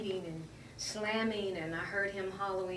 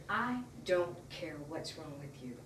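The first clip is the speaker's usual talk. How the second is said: retold slowly, in a lower voice; measured, lower imitation of a dismissive officer; cold dismissal; 4 semitones lower, 3 dB quieter than usual. Hurt woman quoting the officer, slow dismissal.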